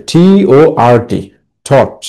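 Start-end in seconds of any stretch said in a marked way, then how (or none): 1.7-2.0 "thought" as one separate falling syllable; first syllable demonstrated. Shown as a demonstration. Teacher blending the spelled letters for students, "thought" as a lone syllable. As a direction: sound out "thought" after spelling it. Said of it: "উচ্চারণ করবে কিভাবে".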